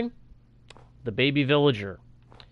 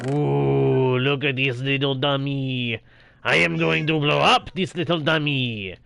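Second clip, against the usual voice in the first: put-on French-ish accent; 3 dB louder than usual. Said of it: "I gave it a French-ish accent".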